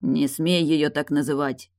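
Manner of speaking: ordinary talk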